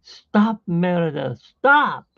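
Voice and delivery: mock scream. Mother yelling at Merida before the shot, high frantic yell. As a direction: shriek at her to stop. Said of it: "her mom was screaming at her".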